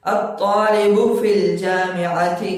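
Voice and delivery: slow, clear recitation with rising questions; slow drill reading. Shown as a demonstration. Teacher reading Arabic exercise to students, slow and clear. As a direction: read each phrase slowly like a teacher.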